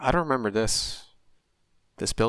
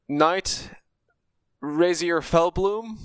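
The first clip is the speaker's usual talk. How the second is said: nervous stutter; 5 semitones higher, much slower than usual. Acted. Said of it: "he sort of stutters a little bit saying that".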